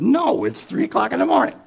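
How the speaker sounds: high-pitched indignant no; indignant protest. Acted. Husband indignant at wife's question.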